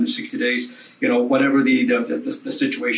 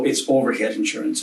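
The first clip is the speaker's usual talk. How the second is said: "overhead" hit harder than the rest, with a rise at the end; stress on overhead. Shown as a demonstration. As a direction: lean on "overhead". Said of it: "emphasize the word business and overhead".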